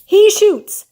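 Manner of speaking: high, loud victory shout. Acted. SpongeBob cheering his own trash-can shot, shouting. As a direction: yell it like you just scored the winning goal. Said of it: "shouted SpongeBob".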